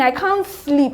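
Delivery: strained, close to tears; exhausted and tearful; tearful plea. Real, not acted. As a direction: say it as if worn out and about to cry. Repeats line in distress.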